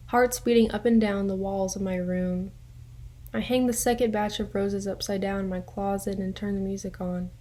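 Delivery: measured poem recital with pauses between lines; poetry reading. Acted. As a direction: read your own poem, line by line. Reads own poem aloud.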